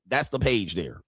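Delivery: normal talking voice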